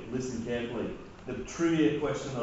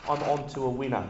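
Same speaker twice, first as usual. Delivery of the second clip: put-on Kiwi accent. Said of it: "where the Kiwi accent just came from".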